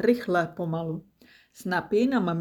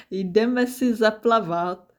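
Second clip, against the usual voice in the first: louder, drawn-out call; calling over shoulder; 3 semitones higher, 5 dB louder than usual. Acted. Snappy calling to mum as she leaves to swim. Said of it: "zvolala přes rameno".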